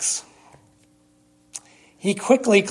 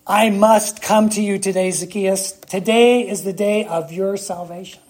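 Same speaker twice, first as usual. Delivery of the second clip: a ringing, louder call up into the tree; Jesus calling out; 3 dB louder than usual. Acted. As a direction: proclaim it like Jesus calling Zacchaeus down. Preacher voices Jesus to Zacchaeus.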